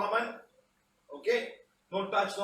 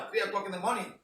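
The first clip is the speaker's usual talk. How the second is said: laughing; faster than usual. Real, not acted. Laughing at the late hour.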